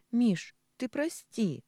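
sobbing. Acted. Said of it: "неожиданно всхлипнула Маруся".

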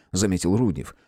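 ordinary delivery, nothing marked

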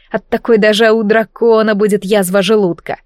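usual speaking voice

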